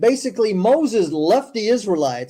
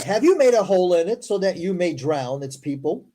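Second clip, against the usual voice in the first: scripture reading. Acted. Host reading scripture to a stream audience, measured recital. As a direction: read it out formally, word by word.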